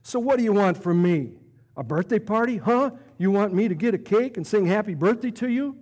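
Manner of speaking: mocking, scornful jab; nasty reply. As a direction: needle her with a sneer. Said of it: "her friend nastily replies".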